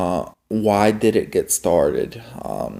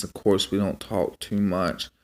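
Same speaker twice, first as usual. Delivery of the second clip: usual speaking voice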